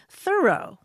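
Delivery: "Thoreau" said as THUR-oh; accent the first syllable of "Thoreau", letting the second drop; first-syllable stress. Shown as a demonstration. Host tells how neighbours said the name, first-syllable stress on "Thoreau". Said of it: "with the accent on the first syllable".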